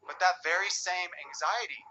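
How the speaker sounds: ordinary talk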